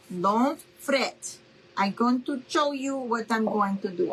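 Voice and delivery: lightly put-on mom's accent, carefully worded; imitating mom's accented English. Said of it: "I'm trying to do my mom's accent".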